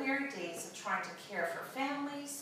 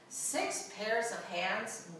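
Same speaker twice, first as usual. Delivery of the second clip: incredulous question; much slower than usual. Acted. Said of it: "The angel shook her head slowly and said".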